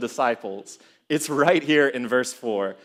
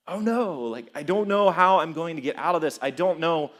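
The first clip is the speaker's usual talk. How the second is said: mock worry; 3 semitones higher than usual. Voicing people in impossible situations.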